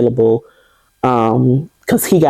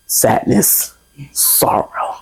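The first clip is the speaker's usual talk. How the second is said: sadness trailing into a whisper; softer and softer into a whisper; fading to a whisper; 4 dB quieter, much slower than usual. Real, not acted. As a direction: let the words fade into breath. Listing her feelings, fading.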